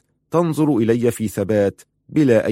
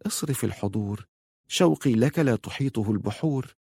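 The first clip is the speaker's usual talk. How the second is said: much softer, longing whisper; 6 dB quieter than usual. Acted. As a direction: breathe it into his ear. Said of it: "وهمست".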